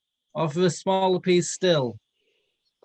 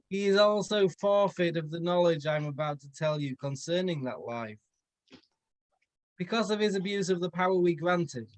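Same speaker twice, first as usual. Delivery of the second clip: prophetic spirit voice; 4 semitones higher than usual. Acted. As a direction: speak as a divine patron.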